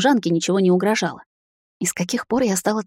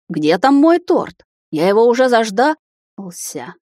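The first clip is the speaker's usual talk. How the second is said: higher, slow, drawn-out cheerful call; jolly uncle calling; 4 semitones higher, 4 dB louder, slower than usual. A narrator's reading. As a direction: call out playfully from the hall. Jovial uncle calling from corridor.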